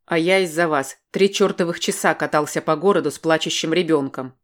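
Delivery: loud, furious retort; man shouting back about driving with a crying child; angry shout. Acted. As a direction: hurl the blame back at her.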